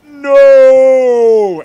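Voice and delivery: loud, high crying shout; hammed-up anguished cry; wailing no. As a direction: melodramatic sobbing no. Annie's anguished no.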